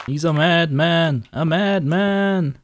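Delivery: slow, loud and dramatic; dramatic madman shout. Acted. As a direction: overplay the outrage, drawn out. Dramatic exclamation in game.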